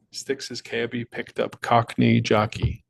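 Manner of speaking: slow, careful tongue twister; slow clean retake. Shown as a demonstration. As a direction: get it right this time, slowly. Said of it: "Tongue twister".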